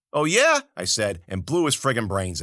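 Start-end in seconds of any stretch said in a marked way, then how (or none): 0.1-0.6 defiant retort. Acted. Narrator retorting before shooting.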